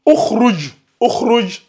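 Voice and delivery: "ukhruj" lu avec un ou initial; lecture avec ou initial. Shown as a demonstration. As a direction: prononce "ukhruj" en commençant par le son ou. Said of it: "Ici, on va lire". ("ukhruj" articulé à l'arabe, ou au début)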